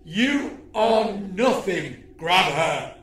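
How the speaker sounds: menacing alien villain. Acted. Villain orders.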